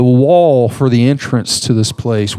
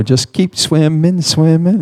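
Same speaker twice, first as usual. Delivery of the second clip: higher, lilting self-encouragement; light Nemo quote; 4 semitones higher, slower than usual. Retold or imitated. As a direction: chant it lightly like a cartoon fish. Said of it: "I felt like Nemo".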